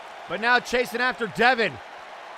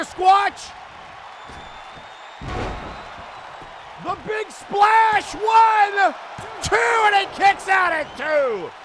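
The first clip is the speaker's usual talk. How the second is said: excited call; 6 semitones higher, much slower than usual. Real, not acted. Big splash and near fall.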